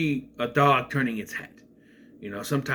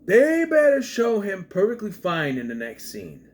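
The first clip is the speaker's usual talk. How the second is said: urgent insistence; 9 semitones higher, 4 dB louder than usual. Retold or imitated. Insisting as worried viewer.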